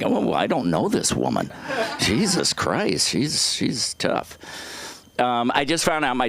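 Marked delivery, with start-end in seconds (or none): 0.0-4.4 slow, laughing disbelief; laughing aside. Retold or imitated. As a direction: chuckle through the disbelief. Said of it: "I was like".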